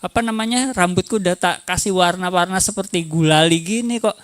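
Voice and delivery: lightly acted complaint to a partner; a hint of wounded nagging; mock reproach. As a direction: playfully chide a partner for neglect. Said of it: "jadi ditegur aja".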